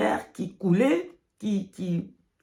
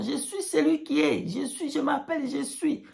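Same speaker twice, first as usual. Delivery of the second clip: voice of God; 5 semitones higher than usual. Pretend. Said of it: "il criait son nom".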